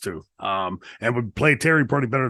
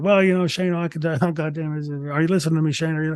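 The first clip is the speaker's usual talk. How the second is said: mumbling put-on voice, pitched higher; 6 semitones higher than usual. Retelling a long phone call, imitating Terry mumbling on. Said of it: "he just keeps mumbling on like this".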